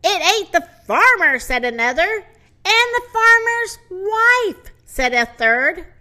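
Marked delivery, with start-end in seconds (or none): 0.0-1.4 loud, higher-pitched panicked report; raised voice, acted panic; alarmed shout. Panicked animals shouting in turn. 2.7-4.7 loud, very high-pitched wail; high, loud acted panic; alarmed cry. Panicked animals shouting in turn.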